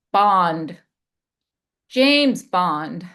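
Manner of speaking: a hint of suave spy; James Bond delivery. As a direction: introduce yourself like Bond, low and sure. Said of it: "I call that the James Bond effect".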